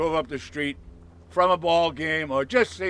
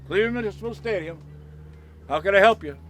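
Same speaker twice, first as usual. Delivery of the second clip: lightly voiced stadium operator, quicker and higher; switchboard answer; 3 semitones higher, faster than usual. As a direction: answer the line briskly as an operator. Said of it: "Bang, right through".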